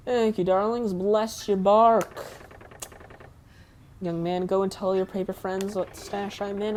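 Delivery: mildly hammed-up southern voice; bad southern accent. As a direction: voice game dialogue with a makeshift southern accent. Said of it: "that's not even a good southern accent".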